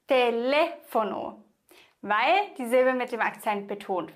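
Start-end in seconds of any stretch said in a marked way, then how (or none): 0.1-1.4 Telefono with a long stressed LE; stress on second syllable. Shown as a demonstration. Teacher repeats the corrected word, stressing LE in Telefono. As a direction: lean on LE in Telefono. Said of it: "Du musst sagen".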